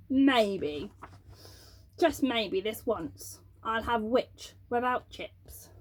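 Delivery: slow, low-ish gloating dragon; a hint of a hungry dragon savouring; sly dragon.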